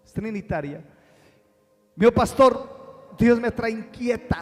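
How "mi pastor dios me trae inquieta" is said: higher and urgent, a lightly voiced troubled woman; voicing the caller. Pastor retells a woman phoning him, lightly voiced and urgent. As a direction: plead it like a restless caller.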